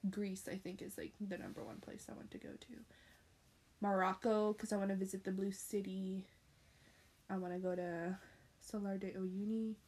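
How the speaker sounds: hushed, breathy wish list; soft whisper. Real, not acted. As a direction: murmur the dream destinations.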